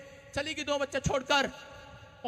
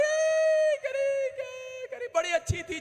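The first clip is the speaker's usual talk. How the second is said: a high, hammed-up cry breaking into praise; overdone grief for show; a fake mourner wailing about the dead woman; mock wailing; slower than usual. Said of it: "नौटंकी कर रही है".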